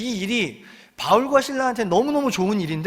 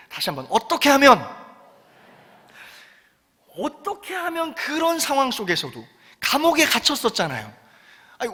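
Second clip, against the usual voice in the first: higher, pleading, earnest question; earnest plea; 5 semitones higher than usual. Shown as a demonstration. Preacher voicing the jailer's question to the church, earnest plea. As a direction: ask as if you truly cannot understand. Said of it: "이게 간절해야 돼요".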